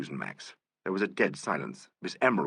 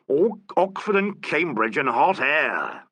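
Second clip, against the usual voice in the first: savage; 7 semitones higher, 6 dB louder, slower than usual. A narrator's reading. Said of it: "he added savagely".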